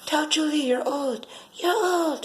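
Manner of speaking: put-on high, sing-song child's taunt, pitched well up; mocking little child. A giggling child taunting her about being old, high and mocking. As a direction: tease like a giggling small kid. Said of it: "It was a little child saying it".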